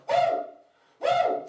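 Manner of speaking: piercing high-pitched mock "woo"; imitating loud woman's cheer. Mocking the Cowboys fan at the bar, high loud whooping. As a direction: whoop shrilly like the obnoxious fan. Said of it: "this is her".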